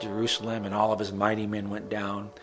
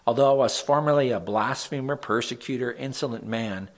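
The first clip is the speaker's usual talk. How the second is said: scripture reading. Acted. Pastor reads Psalm fifty-seven to the group, solemn reading. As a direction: read the verse out like a prayer.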